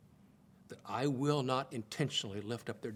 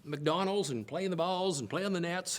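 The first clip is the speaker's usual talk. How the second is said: mom's bright and cheery invitation, pitched higher; 4 semitones higher than usual. Retold or imitated. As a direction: sing it out like a cheerful mom covering up. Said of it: "bright and cheery and say".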